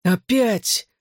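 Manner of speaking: tired teammate groaning at the repeat. A narrator's reading. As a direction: moan it like here we go again. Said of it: "простонал Хьюи".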